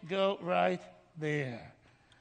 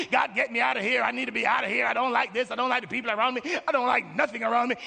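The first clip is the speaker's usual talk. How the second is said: louder, insistent griping to God; complaining; 4 semitones higher, 6 dB louder than usual. Acted. Congregant griping to God about their situation, insistent complaining. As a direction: pile up grievances in one driving run. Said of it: "we wanna complain about where we are".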